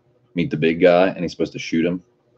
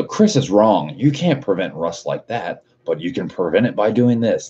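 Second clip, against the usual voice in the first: mock YouTuber intro; 3 semitones higher than usual. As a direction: mimic a gimmicky rival channel. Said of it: "New video".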